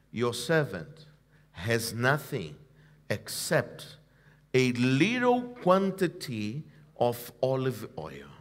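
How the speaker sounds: soft, low, almost breathless voice of a humble widow; meek widow's reply. Retold or imitated. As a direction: hush it like a poor widow confessing. Widow answers the prophet humbly.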